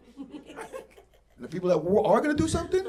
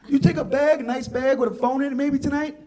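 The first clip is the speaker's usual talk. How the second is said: mock confrontation; 8 semitones higher, 7 dB louder than usual. Confronting the bag thief.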